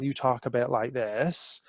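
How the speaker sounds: light Bristol West Country accent, slowed a touch; a gentle hint of local Bristol burr. Shown as a demonstration. Speaker showing the audience how Bristol locals sound, light Bristol accent. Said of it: "if you're a local from Bristol".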